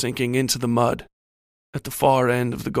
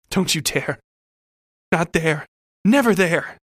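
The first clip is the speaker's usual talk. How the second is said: building from raised voice to high shout; screamed warning; 5 semitones higher, 4 dB louder than usual. A narrator's reading. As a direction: cry out in rising desperation, loudest at the end. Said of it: "I screamed to him".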